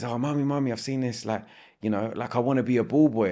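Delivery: a hint of a hopeful child pleading; eager child.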